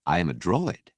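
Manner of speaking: a prim droid, mildly affronted; posh droid, lightly disapproving; polished disapproval. Acted. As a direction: correct him with a touch of disdain. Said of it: "The polished tone sounded somehow disapproving".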